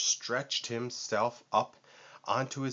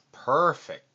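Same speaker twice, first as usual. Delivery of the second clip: cooing; 5 semitones higher, 5 dB louder than usual. A narrator's reading. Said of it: "cooed Vulture".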